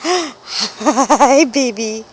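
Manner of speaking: cooing pet greeting. Real, not acted. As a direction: coo hello to the pup. Owner greeting dog tenderly.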